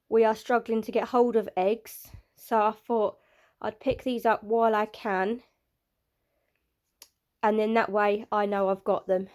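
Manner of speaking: breathless, with a blocked nose; short of breath from a stuffy cold. Real, not acted. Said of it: "I'm getting a bit out of breath".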